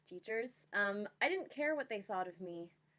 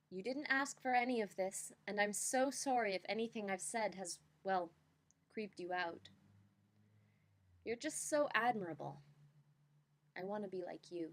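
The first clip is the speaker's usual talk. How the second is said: slam poetry reading. Shown as a demonstration. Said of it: "here I shall attempt my best slam poem reading".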